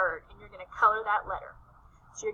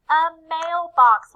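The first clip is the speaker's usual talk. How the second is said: slow modelling; 4 semitones higher, 11 dB louder, much slower than usual. Shown as a demonstration. Teacher naming the picture for young students, slow and clear. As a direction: stretch it out slowly and loud for little kids.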